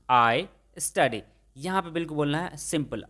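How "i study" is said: very slow, each word separate; slow model sentence. Shown as a demonstration. Teacher models the answer for students, very slowly. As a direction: lay it out slowly for the class. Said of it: "तो अंग्रेजी में कैसे बोलेंगे".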